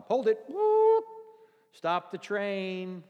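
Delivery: loud, high call, slow at the end; mock stern stop; commanding halt. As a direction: stop them in their tracks. Stopping a customer's cursing.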